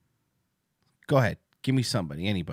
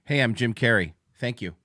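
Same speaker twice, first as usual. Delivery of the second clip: Jim Carrey impression. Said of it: "That's Jim Carrey introducing himself".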